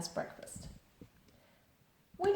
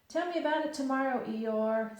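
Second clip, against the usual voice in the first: a touch of sleepy bear, quick and higher; sleepy Pooh; 6 semitones higher, 5 dB louder than usual. Acted. Pooh sleepily waving off the noise at night. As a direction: mumble it off, half asleep. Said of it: "said Pooh sleepily".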